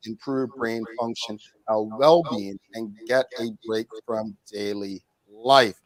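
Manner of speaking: echoing like a big hall. Real, not acted. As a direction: voice bouncing back in an echoey room. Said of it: "I'm echoing".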